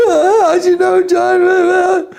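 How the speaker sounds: high, sobbing question; imitated crying. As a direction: let the voice break into a cry. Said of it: "And he's crying".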